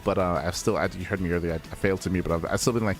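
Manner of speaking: worn-out, strained caster voice; hoarse voice. Real, not acted. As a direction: talk through a voice that's almost gone. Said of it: "I'm still not a hundred percent".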